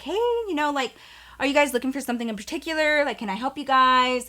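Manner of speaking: lilting offer of help, imitated; retold friendly greeting. Girl in the store approaches the boys to offer help, imitated friendly greeting.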